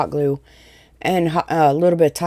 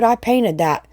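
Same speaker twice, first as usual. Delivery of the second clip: ordinary delivery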